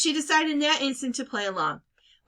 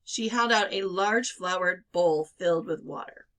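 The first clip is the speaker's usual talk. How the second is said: ordinary delivery, nothing marked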